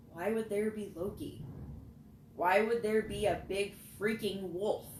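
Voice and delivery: demanding, voice rising to a loud angry push; sudden anger. A narrator's reading. To the others in the tunnel, a loud angry demand. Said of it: "I demanded, suddenly angry".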